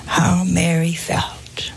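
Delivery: slow hushed whisper of sorrow. Acted. Preacher to congregation, whispering slowly. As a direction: let the words fall to a whisper. Preacher evokes Mary's grief.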